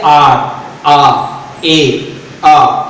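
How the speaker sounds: आर said low as a long आ sound; sound demo. Shown as a demonstration. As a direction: stretch the sound आ to show the letter आर. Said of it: "आवाज क्या आ रही है". (आर को लंबी आ ध्वनि में बोलना)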